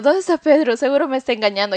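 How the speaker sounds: "¿Dónde está Pedro?" más agudo y un poco más fuerte; pregúntalo alterada, imitando los celos; reclamo celosa. Retold or imitated. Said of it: "Y en eso le digo". (recreando el reclamo a gritos leves, con "está" marcado)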